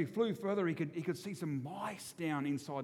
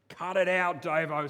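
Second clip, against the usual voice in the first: brother snapping; 2 semitones higher, 7 dB louder, slower than usual. Retold or imitated. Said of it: "says my brother".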